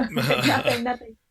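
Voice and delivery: high mock crying, gasping between words; imitated breathless sobbing. Sobbing new mother trying to reassure her mom, mock-breathless. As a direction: act out crying too hard to breathe. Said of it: "can't even breathe kind of crying".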